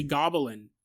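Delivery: "goblin" said as three syllables, GOB-uh-lin; extra-syllable pronunciation. Shown as a demonstration. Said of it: "'cause I say goblin".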